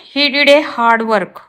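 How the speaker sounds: slow, careful read of the wrong sentence; slow teacher dictation. Shown as a demonstration. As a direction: spell it out word by word for the class. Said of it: "wrong है".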